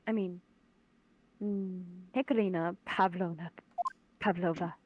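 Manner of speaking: put-on light British accent, pleading; a hint of a British lady. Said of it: "I'll just do British for her".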